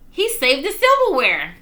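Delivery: high, loud joyful cry; excited cry. A narrator's reading. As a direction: shout it with delight. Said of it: "cried Mother".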